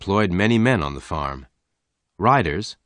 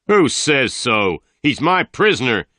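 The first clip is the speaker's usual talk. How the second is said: loud, higher angry shout; 6 semitones higher, 5 dB louder than usual. A narrator's reading. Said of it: "Tull shouted".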